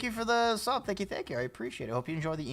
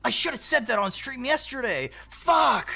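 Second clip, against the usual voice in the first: higher, building to a loud fuck; frustrated outburst; 9 semitones higher, 3 dB louder than usual. Retold or imitated. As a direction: act out kicking yourself over a missed pun. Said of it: "And I'll be like".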